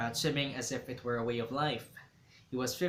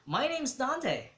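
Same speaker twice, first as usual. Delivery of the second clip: slow, higher, deliberate self-introduction; 12 semitones higher, 4 dB louder, much slower than usual. A narrator's reading. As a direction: say your name slowly, a little shy. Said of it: "he said".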